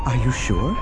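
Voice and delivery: wary. A narrator's reading. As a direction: ask cautiously, unsure. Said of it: "Droma asked warily".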